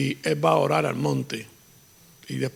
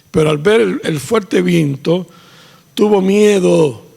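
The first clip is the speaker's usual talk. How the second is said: dramatic build; 3 semitones higher, 6 dB louder, slower than usual. Acted. Dramatic storm preaching.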